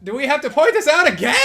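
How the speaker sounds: high-pitched frustrated outburst; exasperated. Real, not acted. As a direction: protest having to repeat it. Exasperated at repeating game task.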